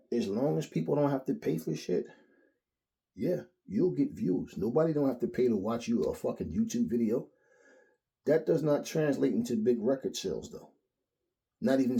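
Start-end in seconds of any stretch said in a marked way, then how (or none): none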